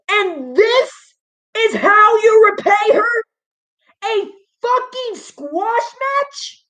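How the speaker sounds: pleading through tears, pitch up; near tears. Real, not acted. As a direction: voice rising and breaking with upset. Ranting upset about wrestler's loss.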